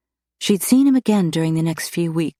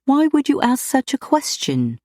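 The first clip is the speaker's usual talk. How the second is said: countering; 9 semitones higher than usual. A narrator's reading. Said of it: "she countered".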